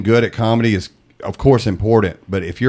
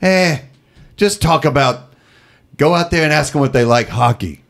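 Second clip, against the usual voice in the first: Dice impression; 6 semitones higher than usual. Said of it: "I'm doing a terrible Dice".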